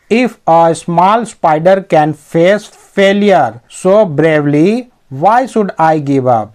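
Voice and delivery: very slow, measured textbook reading; slow dictation-style English; slow reading aloud. Acted. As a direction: read it out slowly, phrase by phrase. Reads the English text aloud.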